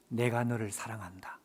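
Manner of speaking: soft unvoiced whisper of divine love; whispered voice of God. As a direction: breathe it like God speaking gently. God's voice rendered as whisper. (속삭이는 하나님의 음성)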